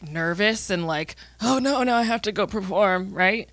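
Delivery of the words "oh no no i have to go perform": put-on old man voice. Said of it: "that's my old man voice".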